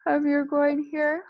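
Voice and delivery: talking through a yawn. Real, not acted. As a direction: stretch the words with a yawn. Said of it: "Oh, sorry, big yawn".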